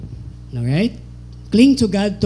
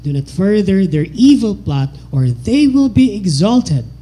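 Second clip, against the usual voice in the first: responsive scripture reading. Acted. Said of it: "We're gonna focus at that verse".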